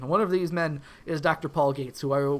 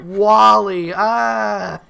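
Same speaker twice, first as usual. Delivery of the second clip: excited shout; 5 semitones higher, 12 dB louder, much slower than usual. Real, not acted.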